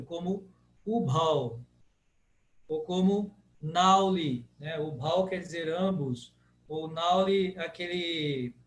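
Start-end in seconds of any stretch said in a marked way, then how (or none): 0.8-1.6 ubhau with open AU. Shown as a demonstration. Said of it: "é sempre aberto". 3.6-4.5 nauli with open AU. Shown as a demonstration. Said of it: "é sempre aberto".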